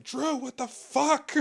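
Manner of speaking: high, slow, laughing squeal of disbelief; mock PR agent's shocked squeal; exasperated PR agent. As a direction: squeak it out like a fed-up agent cracking up. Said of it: "This fucking P R agent just like".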